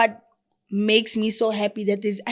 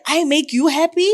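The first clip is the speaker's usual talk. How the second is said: surprised; 7 semitones higher, 7 dB louder than usual. Retold or imitated. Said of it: "and I'm just like".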